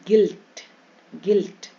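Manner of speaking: गिल्ट with a brief "i"; short i vowel. Shown as a demonstration. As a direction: say गिल्ट as "gilt", no u heard. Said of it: "यू ई का छोटी ई".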